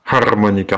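Harmonica opened with a breathy h from the back of the throat; throaty h. Shown as a demonstration. Copying the Croatian reading for viewers with a throaty h on Harmonica. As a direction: start Harmonica with a guttural h, ha-rmonica. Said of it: "avec le H qui vient du fond de la gorge".

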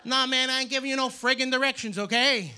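tough-talking Brooklyn guy; mock Brooklyn accent. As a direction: talk like a cool Brooklyn guy refusing a favor. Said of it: "cool guys from Brooklyn with that accent".

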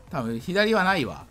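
ordinary talk, nothing marked

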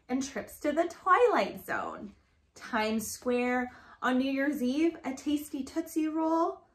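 rhythmic picture-book read-aloud; reading to children. Acted. Reading a rhyming alphabet book to Grace, sing-song read-aloud.

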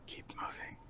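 barely audible voiceless whisper; whispered order. Acted. Player points and orders the stealthy group on, whispered. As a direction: breathe the command under cover of stealth.

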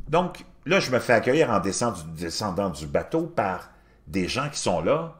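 ordinary delivery

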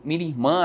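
'minha irmã' merged into 'mirimã'; run-together vowels. Shown as a demonstration. Teacher showing another regional pronunciation, 'minha irmã' run together as 'mirimã'. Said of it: "juntando quase que as, as vogais".

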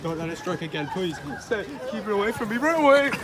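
high, hammed-up shouts for rescue; mock cry for help. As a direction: yell for help like a panicked presenter.

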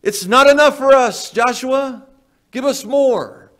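high, loud complaint to a leader; mock excuse-making. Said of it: "You see the excuses there?".

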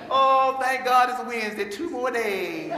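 slow, laughing sigh of relief; milk the midweek relief; imitating a worker counting down to Friday; drawn-out mock relief.

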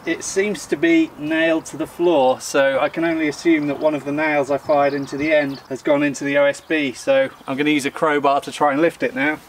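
distant, thin backup-mic sound; tape dropout. Real, not acted. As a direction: audio from a far camera mic. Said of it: "Apologies for the loss of audio here".

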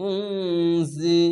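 উনজি with the জ as a buzzing z sound. Shown as a demonstration. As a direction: let the জ in উনজি buzz like a z, drawn out. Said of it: "ঝিনঝিন করে আওয়াজ হবে". (উনজি ঝিনঝিন করে জা)

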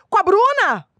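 high, loud anxious mother; mother answering the kidnapper. Retold or imitated. Scam victim on the phone, high anxious mother. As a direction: blurt out the daughter's name in a panic. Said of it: "Aí a mãe fala".

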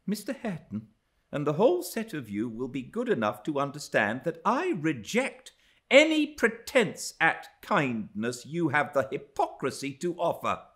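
high, emphatic, haughty tirade; indignant scorn. A narrator's reading. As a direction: reject them all with open contempt. Frowning, scornful rejection of the household.

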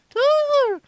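loud, high scolding mother; angry mom. Acted. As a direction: yell at your kid as the mom. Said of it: "my mom heard again".

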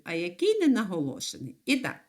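ordinary talk

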